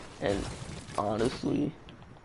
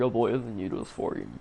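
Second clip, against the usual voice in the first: imitating mom, louder; 4 semitones higher than usual. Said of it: "She was like".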